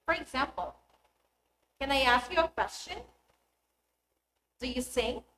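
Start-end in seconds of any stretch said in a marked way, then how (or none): 1.8-5.2 yes-no questions lifting on final "question" and "sing"; rising intonation. Shown as a demonstration. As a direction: pitch climbs at the end on "question" and "sing". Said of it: "pitch of the voice rises at the end".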